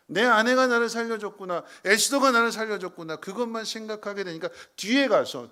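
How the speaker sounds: loud, high-pitched emphatic preaching; preaching at full force. Acted. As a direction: cry it out from the pulpit. Preacher voices king's realization.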